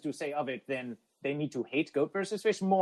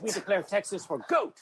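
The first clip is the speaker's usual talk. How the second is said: imitated defiant proclamation; mock proclamation; 4 semitones higher than usual. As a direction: announce it like a rallying cry. Acts out a chat declaration.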